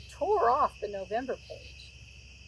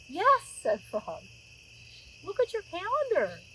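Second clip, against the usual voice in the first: excited Frog; 7 semitones higher, 3 dB louder than usual. A narrator's reading. Frog delighted it is May.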